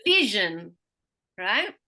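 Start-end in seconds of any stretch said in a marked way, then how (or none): 0.0-0.7 VI punched loud in vision; stress before the suffix. Shown as a demonstration. Teacher giving an example, loud stressed VI in vision. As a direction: hit the first syllable of vision. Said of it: "always has the most stress".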